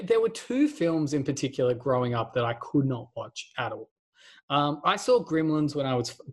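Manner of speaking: ordinary talk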